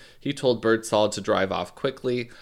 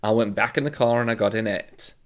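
put-on loud, then settling amateur Cockney accent; Cockney attempt; 3 semitones higher, 5 dB louder than usual. Podcaster continuing killer's statement, attempted Cockney accent. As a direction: carry on in shaky-grasp Cockney. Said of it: "Do a Cockney one instead".

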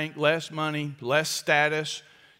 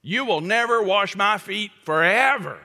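sworn refusal; 4 semitones higher, 3 dB louder than usual. Retold or imitated. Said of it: "it's almost like a, an oath".

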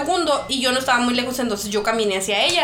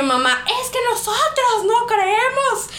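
slow, high, mock-sweet passive-aggressive mom; mother brushing off the teacher, passive-aggressive; 8 semitones higher, slower than usual. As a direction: needle him politely, with a higher, slower sugary edge. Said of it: "con un tono pasivo-agresivo".

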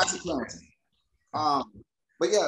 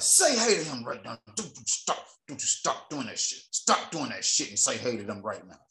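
retold mother's scolding; 3 semitones lower than usual. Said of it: "His mom said".

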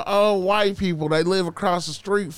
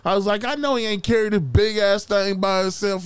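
indignant scolding; 5 semitones higher, 3 dB louder than usual. Retold or imitated. Acts out scolding the two kids.

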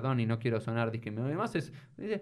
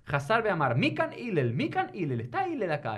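calling out; 5 semitones higher than usual. Acted. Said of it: "empezó a gritar".

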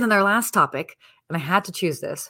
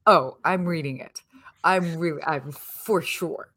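breathy hush, words barely voiced; whisper; slower than usual. Real, not acted. Author assures the host she will narrate it, in a whisper. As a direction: whisper it with a smile.

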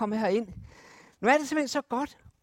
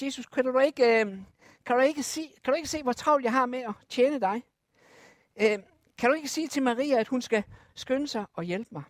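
irritated complaint; 2 semitones higher, 3 dB louder than usual. Acted. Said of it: "virkelig irriteret på Jesus".

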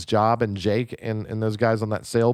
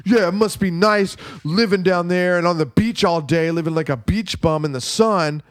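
mildly angry retold jab, a little higher; mock angry; 4 semitones higher than usual. Podcaster quoting angry brother on phone, mildly mock angry. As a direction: imitate someone turning serious and bitter. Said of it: "gets all serious and angry".

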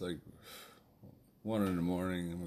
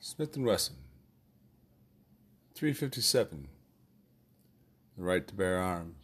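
mock ad slogan. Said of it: "The next commercial is brought to you by".

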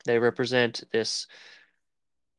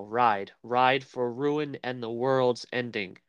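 measured, deliberate recital of a war speech; battle speech; slower than usual. Acted. King addressing his soldiers before the charge, understated oratory. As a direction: recite it slowly with long pauses, understated. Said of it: "he gives his speech".

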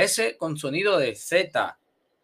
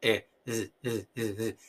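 throat sound demo; 5 semitones lower, 6 dB quieter than usual. Shown as a demonstration. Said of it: "ese sonido con la g-, garganta".

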